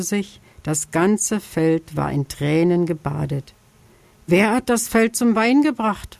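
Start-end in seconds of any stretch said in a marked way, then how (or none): 4.3-6.2 fox asking. Acted. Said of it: "fragte Frau Füchsin".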